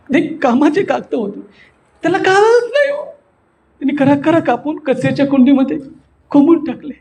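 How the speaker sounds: high plaintive grumble, "कळत" stretched; exasperated complaint. Shown as a demonstration. Retells the wail as a complaint.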